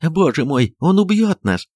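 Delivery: high, tearful frightened plea; wife weeping in terror; sobbing cry. Acted. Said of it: "рыдала Софья Антоновна". (рыдая, высоко)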